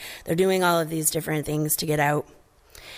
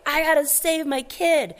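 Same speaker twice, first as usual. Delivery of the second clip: raised urgent father voice; determined dad; 9 semitones higher than usual. Retold or imitated. Marlin resolving to rescue Nemo, urgent dad. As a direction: say it like a panicked dad springing into action. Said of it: "He goes into full, like".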